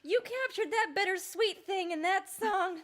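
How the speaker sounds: high, loud, slow and awestruck; gushing praise. Real, not acted. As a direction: rave about the song, almost overcome. Gushing praise after the song.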